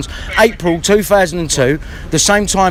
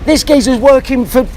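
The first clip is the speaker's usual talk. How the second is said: heated rant; 5 semitones higher than usual. Real, not acted. Angry rant at the police station.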